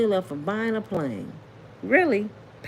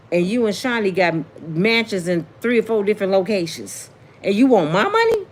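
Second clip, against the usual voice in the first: fed-up churchgoer; 3 semitones lower than usual. Retold or imitated. Churchgoer confronting a greedy pastor, indignant. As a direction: tell the pastor off and walk out.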